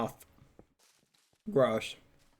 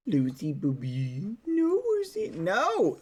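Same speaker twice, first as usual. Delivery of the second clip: pet-talk scolding; 4 semitones higher, slower than usual. Real, not acted.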